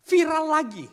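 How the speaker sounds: high, loud cry of viral lagi; exclaimed loud. Real, not acted. Preacher to congregation, loud high exclamation. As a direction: shout viral lagi out in disbelief.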